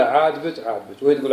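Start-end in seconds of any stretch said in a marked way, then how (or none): 0.0-0.7 a casual questioning "عاجبك؟" with a falling end; asking if pleased. Retold or imitated. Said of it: "يقول له". 0.7-1.0 "عاجبك" said lower and softer as a shrugging answer; quiet casual reply. Retold or imitated. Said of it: "يقول له".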